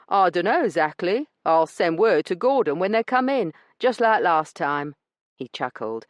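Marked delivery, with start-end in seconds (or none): 0.1-4.9 a smug weasel of a man brushing her off; rough dealer. Acted. Branson dismissing Io's complaint, smug and rough.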